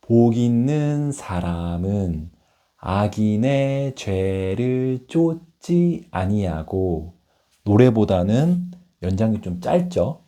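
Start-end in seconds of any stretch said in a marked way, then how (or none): 0.0-7.1 slow, solemn recitation; poem recital. Shown as a demonstration. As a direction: recite it slowly like scripture. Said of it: "교회를 다니니까".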